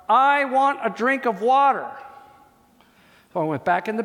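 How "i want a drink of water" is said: put-on whiny child's request.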